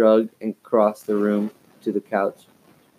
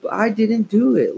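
high protest; 12 semitones higher than usual. A narrator's reading. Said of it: "Lindsay cried".

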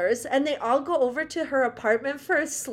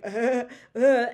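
stupid laugh imitated; 4 dB louder than usual. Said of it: "laugh where he's like".

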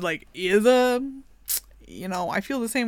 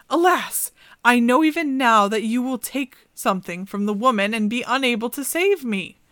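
a higher, sighing alas; sorrowful raven princess; 3 semitones higher, 5 dB louder than usual. Acted. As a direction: lament as the enchanted raven. Raven laments.

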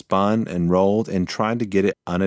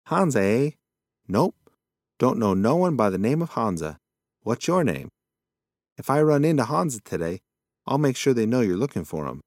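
a hint of a rambling old possum, quick at the end; muddled old-timer chatter; lightly voiced old possum; 4 semitones higher than usual.

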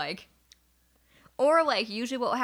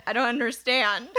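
slow, louder puzzled imitation; mock confused friend; 2 semitones higher, 5 dB louder than usual. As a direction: drag it out dumbly. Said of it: "And you said".

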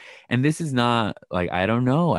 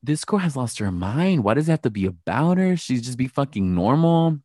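bothered, exasperated; 4 semitones higher than usual. Retold or imitated. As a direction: act out someone thoroughly bothered, stretching the words. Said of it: "I feel like she was so bothered".

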